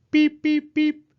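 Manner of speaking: high, loud chirpy peeps; chick peeps. Acted. Baby chicks peeping at the animals. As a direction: peep like tiny chicks.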